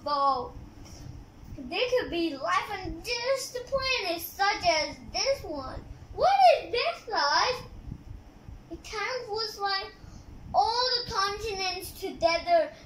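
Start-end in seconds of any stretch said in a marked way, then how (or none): 6.2-7.6 surprised. Real, not acted. Kid reacts to the book picture.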